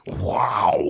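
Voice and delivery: breathy whispered wow impression; Owen Wilson wow. Friend imitating Owen Wilson's wow catchphrase. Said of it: "who is it that does wow? Owen Wilson".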